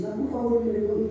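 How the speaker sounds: high, soft mock-tearful begging; imitated tearful plea. Dying man asking God for forgiveness, imitated tearful pleading. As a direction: act out a weeping man's small plea. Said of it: "ele começou a chorar".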